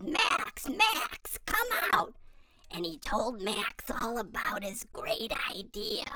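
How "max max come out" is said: high, louder call across the yard; a child's high yell. Acted. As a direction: call Max out of the house. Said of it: "he yelled".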